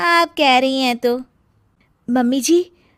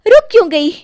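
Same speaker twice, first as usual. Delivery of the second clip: defiant; 5 semitones higher, 6 dB louder, faster than usual. Acted. Daughter-in-law confronts mother-in-law.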